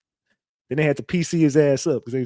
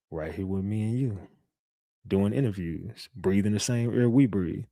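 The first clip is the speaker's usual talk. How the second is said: much lower and softer, quiet menace; imitating Govan low; 6 semitones lower, 5 dB quieter than usual. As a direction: mimic his flat, low hint of a threat. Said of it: "I said".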